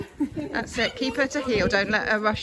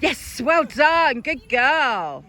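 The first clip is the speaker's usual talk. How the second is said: excited praise; 5 dB louder, much slower than usual. Real, not acted. Rewarding the dog with fuss.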